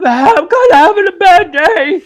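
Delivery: very high, loud, strained whine; Bobcat Goldthwait impression. Fired man tells his boss in a strained whine. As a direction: whine it like you're about to crack. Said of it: "they're like".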